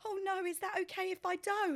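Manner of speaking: laughing, high polite refusal; giggly mock-polite no. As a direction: decline sweetly through a laugh. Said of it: "I was like".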